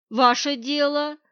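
ordinary delivery

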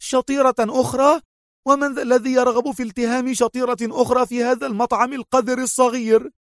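high, scornful outburst; well-acted anger. A narrator's reading. Mona scorning Antonio's offer, high and scornful. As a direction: cut him off with mock fury. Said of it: "قاطعته في غضب أحسن التمثيل".

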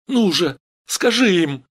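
high, loud urging; urgent demand. Acted. Steve, gripping Vera's shoulders, shouts urgently. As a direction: push her to speak. Стив хватает Веру за плечи.

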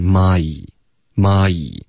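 蚂蚁 without Chinese tones, "ma" sliding into "yi"; tones removed. Shown as a demonstration. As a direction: glide 蚂蚁 toward English "my". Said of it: "把声调去掉".

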